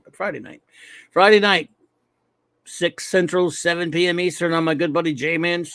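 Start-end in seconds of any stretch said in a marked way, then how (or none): 0.0-0.6 quiet. Acted. Correcting Saturday to Friday. 1.1-1.7 Friday punched loud and proud. Acted. Correcting Saturday to Friday.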